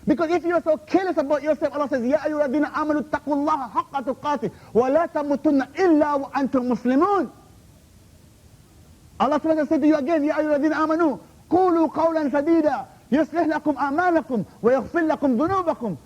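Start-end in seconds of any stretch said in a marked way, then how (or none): 2.0-7.3 rapid chanted Arabic verse; quick Quran recitation. Real, not acted. Preacher quoting the Quran to the heckler, quick recitation. 10.2-16.0 rapid chanted Arabic verse; quick Quran recitation. Real, not acted. Preacher quoting the Quran to the heckler, quick recitation.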